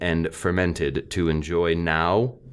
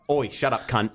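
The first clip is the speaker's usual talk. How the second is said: mock Australian; 4 semitones higher than usual. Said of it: "That's Australian".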